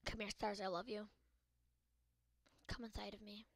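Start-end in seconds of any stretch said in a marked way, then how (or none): 2.7-3.5 teasing whisper; mock whisper. Gamer whispering a crude joke to the stars. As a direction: breathe it out as a cheeky joke.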